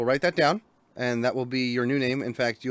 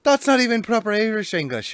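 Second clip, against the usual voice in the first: higher, louder, laughing protest; excited outburst; 10 semitones higher, 8 dB louder than usual. Real, not acted. Host mocking his own bad accent, excited and loud. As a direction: blurt it out, amused at yourself.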